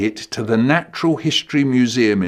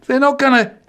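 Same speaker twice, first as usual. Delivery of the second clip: teasing loud; 7 semitones higher, 5 dB louder than usual. Retold or imitated. Teasing brother.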